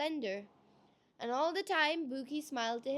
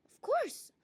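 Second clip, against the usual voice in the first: bright, high cheerful answer; 14 semitones higher than usual. A narrator's reading. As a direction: chirp it gladly.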